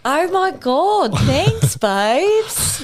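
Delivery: high, gushing Australian thank-you; Australian accent. Acted. Co-host thanks praise in character, exaggerated Australian accent. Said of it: "Australian accent I've ever heard".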